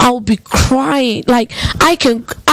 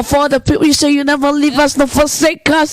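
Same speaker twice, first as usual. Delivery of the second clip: higher, mildly accusing prayer; retold reproach; 4 semitones higher, faster than usual. Grieving woman cursing God out in prayer, mildly accusing. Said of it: "I will curse God out".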